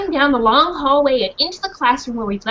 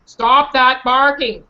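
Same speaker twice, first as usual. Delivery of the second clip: stern man; 5 dB louder, slower than usual. Acted. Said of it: "said a man".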